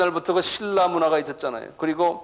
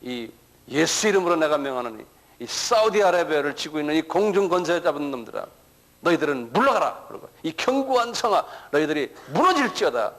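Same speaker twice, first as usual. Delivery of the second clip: imitating a forceful rebuking prayer; mock spiritual-warfare prayer; commanding prayer. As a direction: command the spirits to leave, preacher-style. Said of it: "이거 막 기도한다고요".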